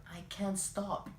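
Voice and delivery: high-pitched mock refusal; imitated bus driver. Bus driver refusing the passengers' plea, imitated high voice.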